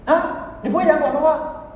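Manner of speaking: high, loud, drawn-out disbelief; can't believe he doesn't speak it; astonished question. Retold or imitated. Church host amazed the elder can't speak Cantonese.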